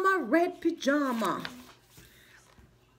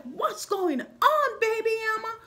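higher, urgent concerned mother; worried mama voice; 7 semitones higher than usual. Retold or imitated. Mama llama bursting in to check on baby. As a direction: rush in asking what's wrong. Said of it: "bolted up the stairs like".

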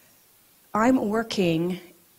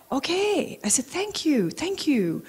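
flustered high thanks; 8 semitones higher than usual. Retold or imitated.

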